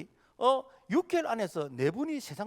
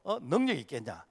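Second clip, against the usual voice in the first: scornful Pharaoh; 3 semitones higher than usual. Retold or imitated. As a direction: imitate a ruler belittling someone else's god. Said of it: "하나님을 아주 비웃고 무시하는". (은근히 비웃고 무시하는 말투)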